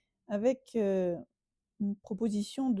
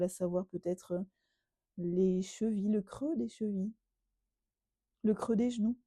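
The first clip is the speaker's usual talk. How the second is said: calm Yoga Nidra guidance with long pauses; measured relaxation voice, phrase by phrase; guided meditation. Real, not acted. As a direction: guide a listener into rest, unhurried.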